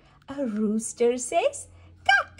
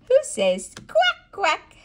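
high, loud playful ask; playful question; 10 semitones higher, 6 dB louder than usual. Acted. Mother playfully asking her toddler about the duck. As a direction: tease the quack out. Animal sound game for toddler.

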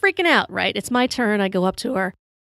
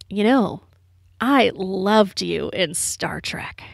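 slow, hushed sweet-talk, imitating a charmer; charming come-on; much slower than usual. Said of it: "doing his best to charm her".

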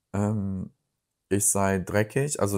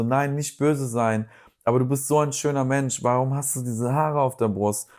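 imitating a placating friend, pitched higher; beschwichtigendes Nachhaken; 4 semitones higher than usual. Retold friend backpedals, insists on criticism. (beschwichtigend nachgeäfft, mit höherer Stimme)

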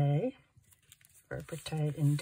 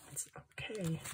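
whisper; 10 dB quieter than usual. Real, not acted. Self-reassurance whispered.

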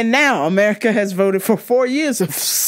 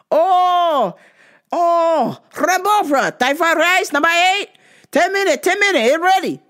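high, clipped imitation of the Thai restaurant clerk's accent; mock Thai accent; 9 semitones higher than usual. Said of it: "they said".

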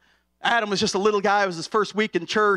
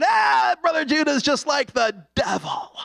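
puppet voice; 5 semitones higher than usual. Retold or imitated. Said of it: "Ranger Walker finally just said".

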